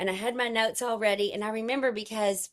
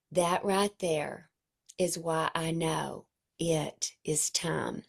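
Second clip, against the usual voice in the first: slow hushed teacher certainty; hushed conviction; 4 semitones lower, slower than usual. Retold or imitated. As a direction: lower and slower, leaning in. Teacher leans over podium.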